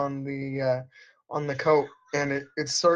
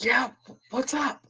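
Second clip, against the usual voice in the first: hushed whisper, slightly higher pitch; 8 semitones higher than usual. Voicing a character heard but unseen: hushed whisper. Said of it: "a kind of hushed, whispered".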